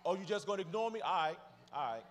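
lightly voiced beggar, rebuffed; ignored panhandler. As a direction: imitate a panhandler giving up on a passerby. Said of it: "You know what it sounds like".

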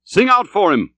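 high, eager crew reply; spirited sailor's call; impulsive rejoinder. Acted. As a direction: shout back the answer without thinking. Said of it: "was the impulsive rejoinder".

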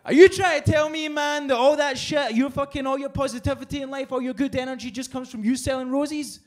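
high, loud disbelief easing off; can't believe a rose is all it takes; incredulous. Retold or imitated.

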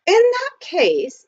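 high, slow, hesitant opening; nervously gathering courage. A narrator's reading. Butler begins proposing to his employer, nervously. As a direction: draw it out, working up the courage. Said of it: "stopped to gather up his courage".

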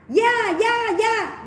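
high, mincing mock yes-yes; mocking sister. Imitating the younger sister brushing people off, mock high. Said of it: "Em gái mình nó cũng đuổi".

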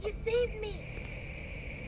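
slow eerie mimic voice.

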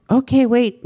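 a hint of a porcupine who suddenly agrees; lightly voiced porcupine, eager; porcupine's eager reply. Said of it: "and she said".

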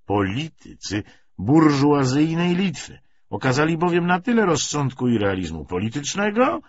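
deliberate political address with emphatic peaks; lightly voiced party orator. Commissar briefs his comrades on revolutionary tactics, mildly oratorical. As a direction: lean on key words, pausing between phrases.

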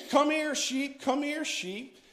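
shepherd's call. Retold or imitated. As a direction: recall the call gently, not shouted. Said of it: "they would holler for their sheep".

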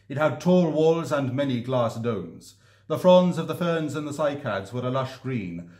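measured storytelling read; gentle narrator reading a fairy-tale passage; story reading voice. Shown as a demonstration. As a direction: read it aloud like an audiobook narrator. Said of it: "I'll read it in the voice I use for, uh, for reading these stories".

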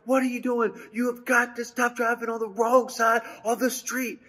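high, worked-up mock yell; retold yell. Excited husband scolding his wife after a near crash, mock yell. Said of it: "and so I yell".

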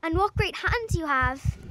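slowly, growing uneasy; wondering little girl. A narrator's reading.

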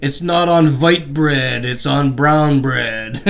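slow, mock Russian accent; Donna's Russian accent. Showing Donna's sandwich to viewers, imitating her Russian accent. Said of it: "in Donna's Russian accent".

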